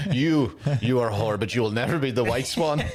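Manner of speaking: put-on half-hearted French accent; mock ballet director with a badly faked French accent; Vincent Cassell. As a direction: scold her in a light, failing French accent. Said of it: "I can't even do a French accent".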